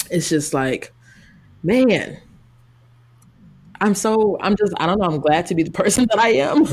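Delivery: crying, worn out. Real, not acted. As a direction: speak through tears, worn out. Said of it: "I'm tired of crying".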